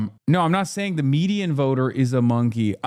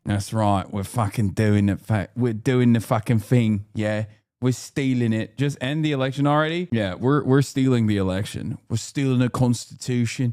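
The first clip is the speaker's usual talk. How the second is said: put-on British accent; 2 semitones lower than usual. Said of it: "I shouldn't even been doing this accent".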